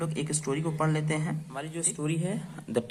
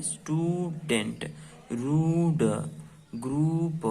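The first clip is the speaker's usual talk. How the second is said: slow clear repeat; 2 semitones higher, slower than usual. Shown as a demonstration. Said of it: "क्या है हमारा ये?".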